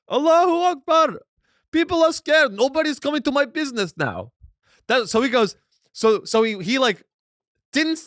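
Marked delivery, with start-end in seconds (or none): 0.1-1.2 high, loud hammed-up Arab-accented cry; mock Arab accent. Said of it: "can't do the Arab accent". 1.7-4.3 high, loud imitation of an Arab street vendor; hammed-up Arab accent, pitched way up; mock Arab accent. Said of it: "do the Arab accent".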